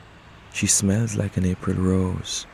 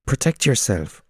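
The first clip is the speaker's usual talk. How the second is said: higher, louder pigeon urging; 5 semitones higher, 4 dB louder than usual. Acted. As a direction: urge him to act. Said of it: "one pigeon says".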